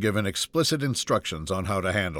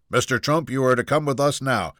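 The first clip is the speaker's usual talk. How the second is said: firm marine captain, slightly raised pitch; 4 semitones higher than usual. Acted. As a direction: give the order firmly, without shouting. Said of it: "addressed Junior firmly".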